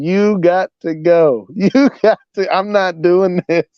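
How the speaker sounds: words pushed out through laughter; laughing through words. Retold or imitated. Night manager retells his boss laughing as she kicks the guy out. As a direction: quote the boss, high and slow, laughing while she talks. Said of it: "my boss just started laughing".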